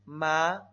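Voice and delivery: "Ma" rising, loud; second tone. Shown as a demonstration. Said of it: "Lo repito". ("Ma" en segundo tono, ascendente)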